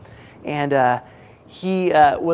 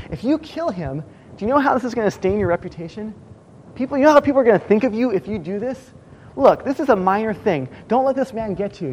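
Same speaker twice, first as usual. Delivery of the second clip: higher-pitched, lightly acted appeal; urgent pleading; 4 semitones higher than usual. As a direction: talk him down, earnestly reasoning. Abigail pleading with angry David.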